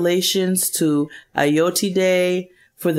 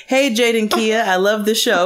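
put-on British accent; 4 semitones higher than usual. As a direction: read the email like a Londoner, in the style of a British pop singer. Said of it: "I'm on my British singer".

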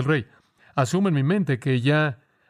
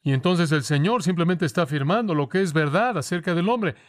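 ordinary talk

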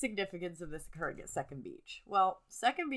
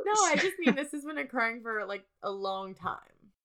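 defensive protest; 5 semitones higher, 7 dB louder than usual. Real, not acted. Protesting the teasing.

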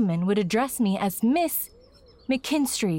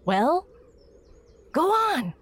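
impatient order; 7 semitones higher than usual. Acted. Girl shooing him away.

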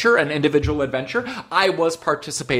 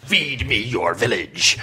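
whispered monster imitation; 3 semitones lower, slower than usual. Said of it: "That was me doing a voice".

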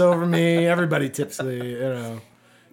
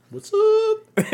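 much higher, louder pickup line; a hammed-up flirt; mock flirty greeting; 3 dB louder than usual. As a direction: play the smooth guy hitting on someone. Mock flirting with a hot chick.

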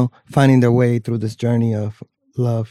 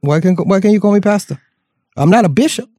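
Southern preacher voice; 6 semitones higher than usual. Acted. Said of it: "don't say it like that".

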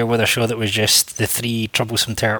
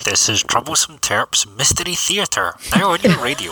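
creaky radio voice. Pretend. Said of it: "we'll just do the whole show in a creaky radio voice".

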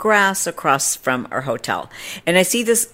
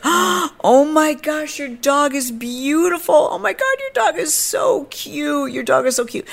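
gasping gush; 13 semitones higher than usual. Retold or imitated. Stranger fawning over her dog, high hammed-up gush. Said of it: "she starts, like, gasping".

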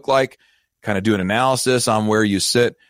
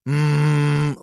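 imitated tire hum; 6 semitones higher than usual. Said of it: "humming real loud".

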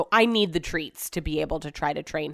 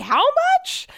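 mock husband, way higher and louder, in disbelief; shocked squeak; 5 dB louder than usual. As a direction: squeal the question in a cartoonish shock. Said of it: "he's like".

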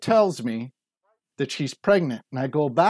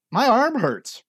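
whiny complaining; 9 semitones higher, slower than usual. Retold or imitated. Complaining about his aching body.

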